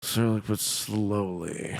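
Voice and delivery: drawn-out, slow and low repeat of "Cyrillic but slowly"; deliberately slow. Acted.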